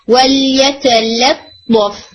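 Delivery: ولیتلطف very slow, both ل light and spread; slow recitation, light lams. Shown as a demonstration. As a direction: recite ولیتلطف slowly with two thin lams. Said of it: "لطف نہیں". (ولیتلطف آہستہ، دونوں لام باریک)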